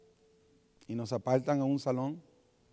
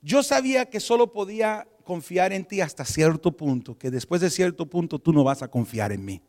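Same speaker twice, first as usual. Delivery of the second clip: Espíritu Santo; 5 dB louder than usual. Retold or imitated. God telling a believer his trust has limits, emphatic. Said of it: "la voz del Espíritu Santo ... me dice".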